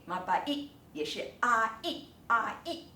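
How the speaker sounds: "mabait" with a and i separated; two syllables. Shown as a demonstration. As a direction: break "啊一" into two beats. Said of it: "也是两个音节".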